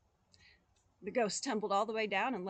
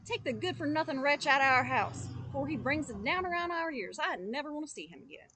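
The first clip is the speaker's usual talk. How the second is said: high, loud shrieking complaint; furious wife; 6 semitones higher, 5 dB louder than usual. Acted. Wife raging to the father about the boy, high and loud. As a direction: rant at the father, voice way up. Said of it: "she cried".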